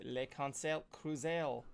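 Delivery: slow, hammed-up French accent on the name; mock French accent. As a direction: say the name like a playful fake Frenchman. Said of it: "I gotta stop doing the French accent thing".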